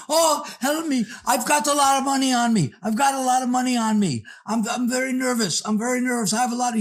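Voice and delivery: hammed-up hysterical plea; frantic woman.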